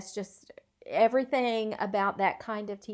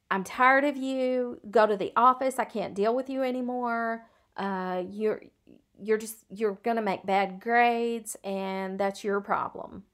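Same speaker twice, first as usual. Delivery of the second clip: louder, exasperated scolding; fed-up teacher; 3 dB louder than usual. Retold or imitated. Uncaring teacher snapping at a student, louder and fed up. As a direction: dismiss the student like you've had enough. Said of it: "non-caring teacher who says".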